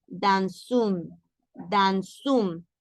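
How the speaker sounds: dans une with the S linked as Z; liaison dans une. Shown as a demonstration. Teacher modelling dans une for students. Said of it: "Y entonces decimos".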